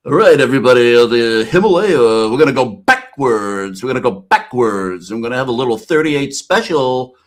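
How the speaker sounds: loud announcer-style ride DJ, easing off. Retold or imitated. DJ in the middle talking to riders, mock announcer voice. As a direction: hype the crowd like a bored carnival DJ. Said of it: "and he'd be like".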